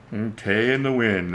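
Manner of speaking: lightly put-on movie-character speech, drawn-out words; Nell. Talking like Nell to the kitties, lightly imitated odd speech. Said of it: "I'm kinda like Nell".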